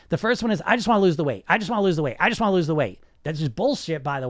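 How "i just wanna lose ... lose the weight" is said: mantra. Retold or imitated. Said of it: "dieters have two mantras".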